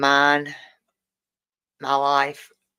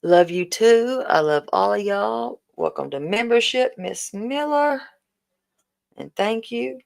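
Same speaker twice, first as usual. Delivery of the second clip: gushing welcome; 7 semitones higher, 3 dB louder than usual. Real, not acted. Welcoming new member.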